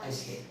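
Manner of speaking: "आइसलैंड" with the S voiced before the L; S sounded. Shown as a demonstration. Teacher contrasting it for students, "आइसलैंड" with S sounded. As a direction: say "आइसलैंड" letter-true, keeping the S. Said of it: "आइसलैंड क्या है".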